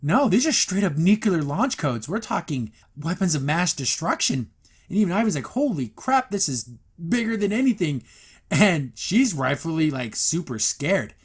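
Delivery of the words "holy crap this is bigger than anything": high, shocked gasp of a line; shocked Ivy. Retold or imitated. Ivy learning the codes are nuclear, shocked and high. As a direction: react as if the stakes just exploded.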